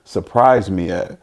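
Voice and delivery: startled son. Acted. Dad voicing his son's reaction to the roar, startled. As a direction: play the child caught off guard by noise. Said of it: "that crowd roars, he's gonna be like".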